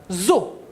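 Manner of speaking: "zo" said alone with a buzzing z; separate, clearly voiced "zo"; isolated syllable. Shown as a demonstration. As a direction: sound out "zo" as one syllable. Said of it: "Deuxième syllabe".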